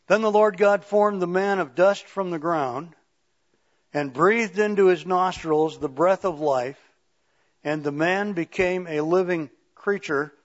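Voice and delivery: emphatic, projected Bible reading; scripture reading. Acted. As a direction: read the verse out to the congregation. Reads scripture aloud.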